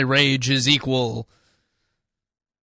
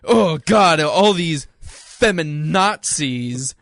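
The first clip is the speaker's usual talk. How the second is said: mock anger; 3 semitones higher, slower than usual. Mock rage bit continues.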